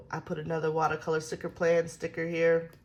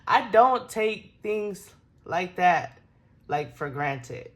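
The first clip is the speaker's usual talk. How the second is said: emotional, near tears; 4 dB louder, slower than usual. Real, not acted. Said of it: "getting ready to cry".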